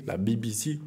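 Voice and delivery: BBC spelled out English-style, "bee bee see"; English accent. Shown as a demonstration. Showing viewers his English accent on "B B C", English letter names. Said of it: "Vous avez vu un peu mon accent anglais".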